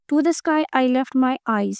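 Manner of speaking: slow measured recitation of "To the sky I left my eyes"; poem reading. Acted. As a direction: recite it line by line, slowly. Reads her own poem aloud. (धीमी गति से कविता पाठ)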